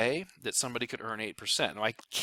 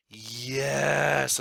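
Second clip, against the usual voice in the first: strange voice; 2 semitones higher, 5 dB louder than usual. Acted. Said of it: "why I said it like that strange voice".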